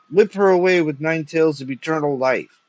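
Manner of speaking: loud, high theatrical howl; raving old poet's cry. A narrator's reading. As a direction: howl the order from the deathbed. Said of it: "howled the sinking poet".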